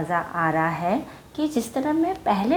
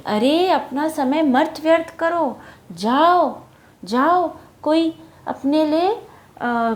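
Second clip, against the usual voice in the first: bird advising; 5 semitones higher than usual. Acted. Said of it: "तो वो जाके कहती".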